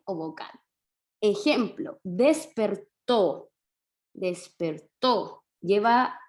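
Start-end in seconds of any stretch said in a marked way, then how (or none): 2.0-3.5 despertó drawn out slowly, weight on the final tó; very slow despertó, stressed at the end; stress on final syllable. Shown as a demonstration. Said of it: "la sílaba tónica en to". 4.1-5.4 despertó stretched slowly, voice resting on tó; slow syllables in despertó, ending on stressed tó; stress on final syllable. Shown as a demonstration. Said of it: "Ahí se carga la voz".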